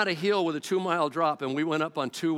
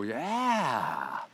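sheepish agreement; much slower than usual. Retold or imitated. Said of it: "And we go".

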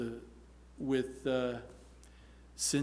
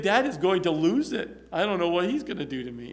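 mock dread; 5 semitones higher, 8 dB louder than usual. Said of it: "daughter who's learning how to drive".

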